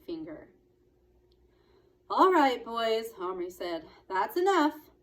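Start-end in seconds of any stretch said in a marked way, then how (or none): 2.1-3.1 loud, firm call to break up a fight; boy breaking up a fight, firm and loud; firm stop. A narrator's reading. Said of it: "in his firm end-of-a-fight voice like his dad's". 4.1-4.9 loud, firm call to break up a fight; boy breaking up a fight, firm and loud; firm stop. A narrator's reading. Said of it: "in his firm end-of-a-fight voice like his dad's".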